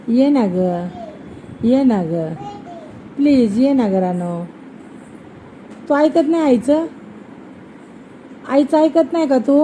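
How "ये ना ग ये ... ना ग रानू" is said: coaxing, lower-pitched plea; pleading. Real, not acted. Mother begging her child to come here, pleading. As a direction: beg gently, drawing out the last words.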